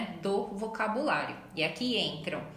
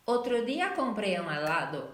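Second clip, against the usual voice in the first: Spanish version. Shown as a demonstration. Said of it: "Por exemplo".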